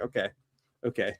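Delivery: soft resigned okay; meek okay. Retold or imitated. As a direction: give in quietly. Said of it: "So I was like".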